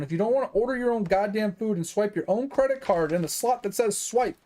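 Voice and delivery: venting imagined outburst at a rude customer; imagined angry rant. Pretend. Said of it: "I'm like".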